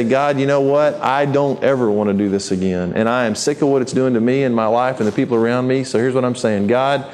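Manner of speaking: an honest, humble prayer; sincere prayer. Shown as a demonstration. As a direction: pray it plainly and sincerely, asking for help. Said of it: "Go to God and say".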